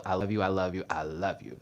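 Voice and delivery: soft, low repeated endearment; tender affection. Real, not acted. Host thanks viewers across the world, tender affection.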